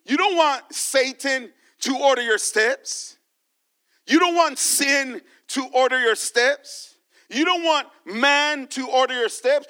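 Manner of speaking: don't lifted each time; stress on don't. Acted. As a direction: hammer "don't" in every line. Repeated parallel exhortation.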